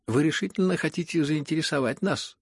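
high, loud exclamation; crying out. A narrator's reading. Aglaya challenges the prince's mysteriousness, crying out. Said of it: "вскричала Аглая".

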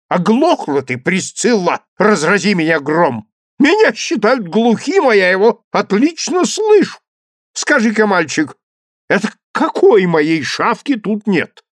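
громко, сердитый старик; наседает на мальчика; ворчливый герцог. A narrator's reading. (ворчливо, громко)

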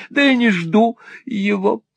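high, hurt whine; whimpering. A narrator's reading. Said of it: "захныкала миссис Никльби".

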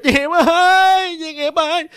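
high, slow, desperate call; crying out in fear. Retold or imitated. A frightened girl calls to Duy Nghiệp for help. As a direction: wail the name like a scared child. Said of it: "Là chị khóc, chị la chứ".

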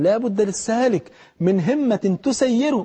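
each word drawn out slowly, like a recited rule; slow recited maxim. Shown as a demonstration. Preacher to his viewers, reciting the saying slowly. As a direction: lay the saying down slowly and deliberately.

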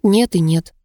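ordinary delivery

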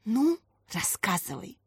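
hushed, unvoiced coaxing; whisper. A narrator's reading. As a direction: whisper to draw her out. Family asks quietly.

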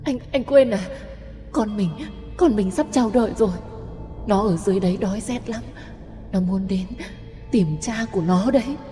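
high, fast tearful ghost voice; weeping ghost. Acted. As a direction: plead through sobs. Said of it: "khóc nức nở".

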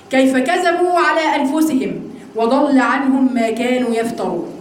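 slow, measured scripture reading; verse recitation. Acted. Teacher quoting scripture to her students, slow recitation.

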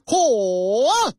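拖长的一声惊呼“嚯——”; 像看到怪事一样拉长声音惊叹; 惊叹的“嚯”. Acted. 交警看见怪事时惊叹. (拉长音的惊叹)

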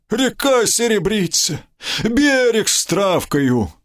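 high, wistful buddy voice; dreamy drunk friend. Acted. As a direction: marvel at the night river. Somov's voice, nostalgic.

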